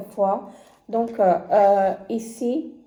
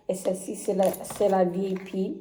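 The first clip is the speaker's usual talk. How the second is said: usual speaking voice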